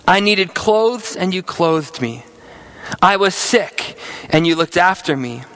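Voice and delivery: steady, measured Bible reading to the congregation; scripture reading. Acted. Pastor reading the sheep and goats passage to his church, solemn reading. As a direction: read the passage with solemn weight. Pastor reads Matthew 25 aloud.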